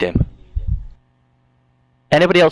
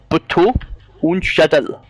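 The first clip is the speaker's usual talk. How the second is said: put-on higher, halting German accent; sexy German attempt; 5 semitones higher, slower than usual. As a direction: linger on each German word. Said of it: "sexy and sexier each time".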